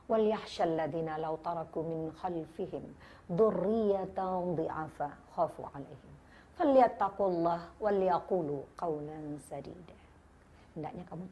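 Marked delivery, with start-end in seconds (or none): 0.1-9.9 slow, measured chanting of the Arabic verse; slow devout Quranic recital; Quran recitation. Acted. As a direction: recite it reverently, drawing out each phrase.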